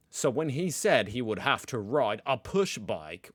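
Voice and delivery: a light put-on Australian accent on a read post; reading it out in a mild, hammed Australian accent. Vlogger reading a Reddit post to viewers, in a light Australian accent. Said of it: "read this in my best Australian accent".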